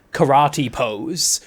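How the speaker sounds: karate said in plain English, slowly; English pronunciation. Shown as a demonstration. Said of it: "in the most, like, English version".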